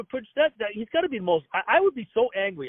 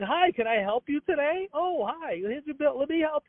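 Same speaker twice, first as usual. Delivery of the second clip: mock fake-nice clerk; 6 semitones higher than usual. Fake-nice Xfinity staff voiced.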